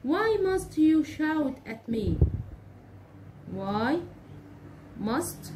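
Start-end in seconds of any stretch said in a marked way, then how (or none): 0.1-2.1 slow, higher, louder complaint; reproachful question. Shown as a demonstration. Teacher acting out a complaint about being shouted at, reproachful. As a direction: blame him for shouting at you. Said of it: "أو مثلًا أقول له إيه؟".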